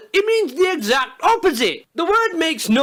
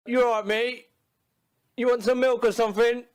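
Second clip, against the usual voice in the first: awkward mate talk; 3 semitones lower than usual. Retold or imitated. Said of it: "talking to it like".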